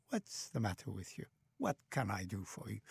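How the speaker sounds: softly, like a caring parent; gentle concern. Acted. Parent to an unhappy child in a corner, gentle concern. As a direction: ask it low and tenderly.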